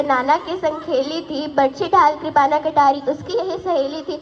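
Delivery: rhythmic ballad declaimed line by line; heroic poem recitation. Acted. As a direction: recite in a driving, steady metre. (वीर रस का लयबद्ध कविता पाठ)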